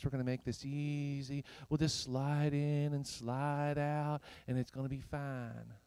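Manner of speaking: light Texas drawl, stretched out; Texas accent. Acted. Preacher mimicking comfortable Americanized believers, light Texas accent. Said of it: "like, a Texas accent when I do that".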